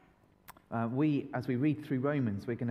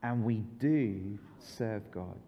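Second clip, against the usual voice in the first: slow group recital; 5 semitones lower, much slower than usual. Shown as a demonstration. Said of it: "so what do we say?".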